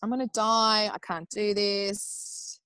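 drawn-out retold wail of giving up; mock despair. Mother in transition saying she can't go on, despairing. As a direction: stretch it into a mild, dramatised moan. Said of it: "I did the whole".

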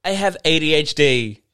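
high airy mock voice with a giggle; mocking quirky faker. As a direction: play the cutesy faker bragging.

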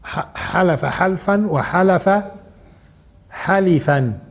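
حلف حلفا spelled out syllable by syllable, slowly; slow teacher's drill of حلف حلفا; slow drilled pronunciation. Shown as a demonstration. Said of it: "إذن".

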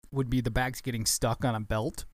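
talking through a yawn; words stretched by a yawn. Real, not acted. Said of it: "yawning, I need some more coffee".

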